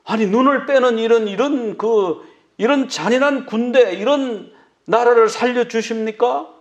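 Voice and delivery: indignant protest. Retold or imitated. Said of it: "막 이러면서".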